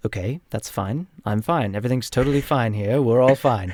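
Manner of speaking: put-on slightly posh British accent. Wizard covering up after the outburst, slightly posh British accent. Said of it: "right back into his accent".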